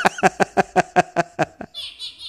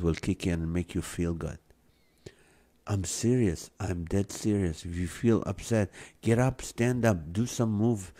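warm and persuasive; 6 dB quieter than usual. Real, not acted. Urging viewers to exercise.

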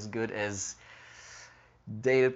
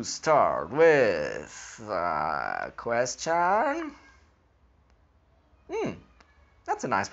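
talking around pipe stem; words through clenched teeth; pipe in mouth; 3 semitones lower, 4 dB louder, slower than usual. Real, not acted. Seen 2: Pipe stem clenched in mouth from about 1.6s while speaking.

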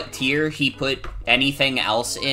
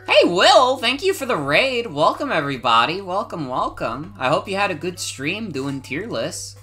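cute anime streamer; 5 semitones higher than usual. Real, not acted. Greeting raid on stream.

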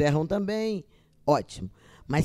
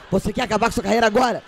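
loud fast warning; inner voice scolding; 3 semitones higher, 6 dB louder, faster than usual. Retold or imitated. The inner voice warning her on stage, loud and fast. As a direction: fire it off as a stern warning to herself. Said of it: "uma voz que fala assim".

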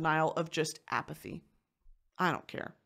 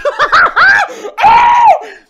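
laughing; 19 dB louder than usual. Real, not acted. Price's panicked cry, laughing.

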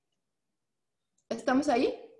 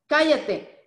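sharp command; 3 semitones higher, 5 dB louder than usual. Acted. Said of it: "lo interrumpió Jesús".

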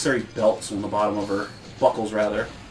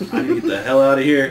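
laughing; 2 semitones higher, 6 dB louder, faster than usual. Retold or imitated. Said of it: "They're just hopping away like".

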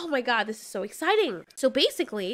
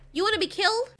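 higher, rising exasperated telling-off; scolding yell; 7 semitones higher than usual. Real, not acted. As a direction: chew out the fool. Scolding a rival dinosaur in game.

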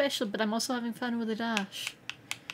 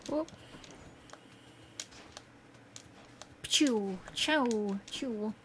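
pew pew zaps; 7 dB quieter, much slower than usual. Pretend. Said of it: "I don't know what noise arrows make".

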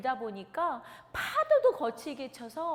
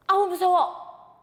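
louder, slow fearful wail; frightened cry; 6 semitones higher, 11 dB louder than usual. Acted. Peter losing faith on the water, crying in fear. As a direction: cry out as fear takes over. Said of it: "라고 얘기하는 그 순간".

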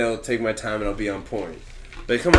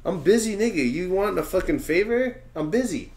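mock exasperation; 7 semitones higher than usual. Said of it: "I don't have time for that".

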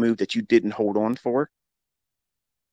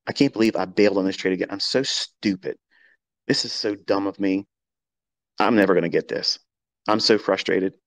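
frustrated self-talk. Shown as a demonstration. Coach demos a trader's self-blame, mock frustrated. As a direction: act out beating yourself up after a bad trade. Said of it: "notice that I said those words and not".

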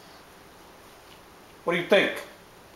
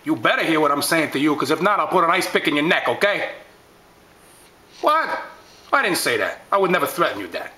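offended dapper tough guy. Acted.

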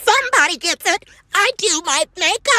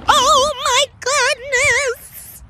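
drawn-out exclaim; 6 semitones higher, much slower than usual. Acted. Grandma exclaiming slowly.

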